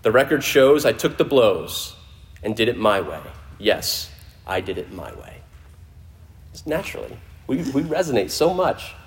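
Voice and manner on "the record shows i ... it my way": lyric recital. Shown as a demonstration. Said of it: "it ends like this".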